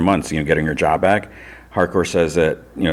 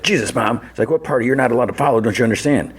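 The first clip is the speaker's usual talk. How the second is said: higher, quick, imitating a fed-up son; retold complaint, pitched up and rushed; mock exasperation; 6 semitones higher, faster than usual. Son scolding his mom for following, exasperated imitation.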